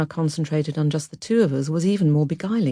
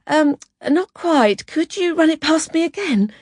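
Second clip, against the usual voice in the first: very high, chirpy, hesitant start; bright; 12 semitones higher than usual. Acted. Out-of-depth typist to the boss, brightly asking for a repeat. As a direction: cover up with high, bright cheeriness. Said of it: "and said brightly".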